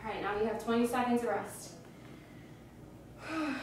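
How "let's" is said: tired sigh. Real, not acted. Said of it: "catch your breath".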